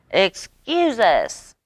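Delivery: shouted. A narrator's reading. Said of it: "shouted Possum".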